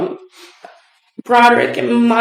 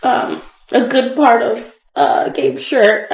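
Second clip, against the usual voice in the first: nervous laugh breaking into tears; fighting back tears; shaky nervous witness. Real, not acted. Witness recalls ripping husband's shirt.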